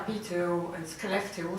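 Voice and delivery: Piteå and Skellefteå said with a French speaker's try at Swedish sounds; Piteå and Skellefteå in a non-native attempt at Swedish; Swedish place names. Real, not acted. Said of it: "sorry for the Swedish accent".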